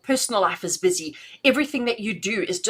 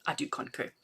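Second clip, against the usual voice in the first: breathy whispered repeat; whispered aside; 5 semitones lower, 12 dB quieter than usual. Real, not acted. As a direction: whisper it to yourself.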